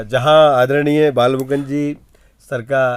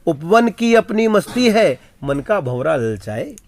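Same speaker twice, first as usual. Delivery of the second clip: poem recital. Acted. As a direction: declaim the verse. (कविता पाठ का अंदाज़)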